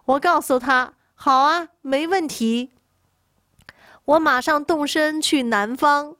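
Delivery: grand, lightly projected promise. Acted. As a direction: declare it out after clearing the throat. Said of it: "大声说".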